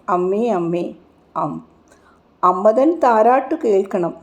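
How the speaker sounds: lilting, rhythmic verse reading; chanted cradle-song verse; lullaby recitation. A narrator's reading. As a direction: recite it as a mother's lullaby, in measured swells.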